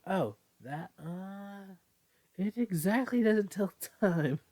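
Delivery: put-on high, nervous young voice; nervous reply. Ren explains the broken watch, high and nervous. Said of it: "Ren replied nervously".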